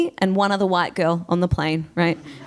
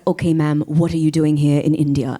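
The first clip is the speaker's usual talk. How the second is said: immigration officer; 5 semitones lower than usual. Retold or imitated. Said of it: "the immigration guy is like".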